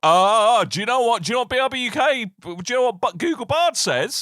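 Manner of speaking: high-pitched, eager build-up; hammed-up excitement. Mock-excited build-up to chatbot answer.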